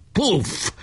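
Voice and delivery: sudden high "puff" exclamation; high cried-out bang. A narrator's reading. Barabás hits the leader's nose, crying out high. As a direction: cry the hit out high. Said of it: "kiáltott Barabás".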